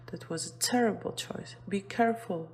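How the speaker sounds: fast, mildly cross warning; a hint of a scolding, rushed; mock anger. Shown as a demonstration. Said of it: "when you are angry".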